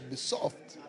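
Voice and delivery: soft demo whisper. Shown as a demonstration. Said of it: "shows how to be soft".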